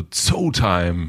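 drawn-out, slow catchphrase; slow mock voice-message greeting; teasing imitation. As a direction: stretch the word out in gentle mimicry. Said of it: "wenn du das so sagst".

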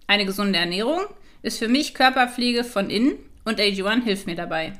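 upbeat sponsor ad read; infomercial. Acted. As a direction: read it like a polished radio ad. Host reads sponsor ad.

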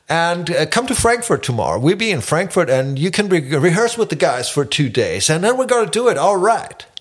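lightly voiced casual manager in English; breezy pitch to the new guitarist; band manager on phone. Manager calling Markus about the gig, casual English. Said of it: "an den Manager".

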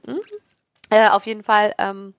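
talking between sips; words around a sip of water; while sipping a drink. Real, not acted. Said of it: "ich muss kurz was trinken".

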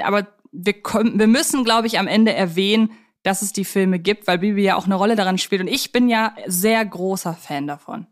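ordinary talk

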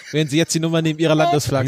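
fast, upbeat teleshopping pitch; chipper 1950s ad. Pretend. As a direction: sell it like a TV ad. Spoof teleshopping ad.

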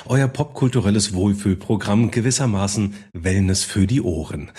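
smooth, cozy radio presenter; radio host voice. Acted. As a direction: announce like a late-night radio host. Mock radio host intro.

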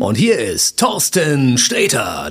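slow, drawn-out stage announcement; announcer voice. Shown as a demonstration. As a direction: announce the guest onto the stage. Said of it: "wenn du jemanden ansagst".

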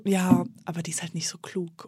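hushed catty whisper; whispered gossip. Retold or imitated. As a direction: whisper it behind her back. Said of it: "Und sofort war so".

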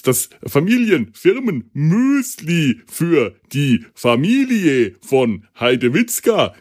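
slow, every syllable stressed; overdone commercial pitch; parody ad voice. Retold or imitated. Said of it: "die herrliche Doppel-, Sonderbetonung mit diesem schwäbischen, äh, starken Einschlag". (Werbesprecher-Stimme)

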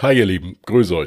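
blocked nose from a cold; stuffy nose. Real, not acted. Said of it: "leicht verrotzt".

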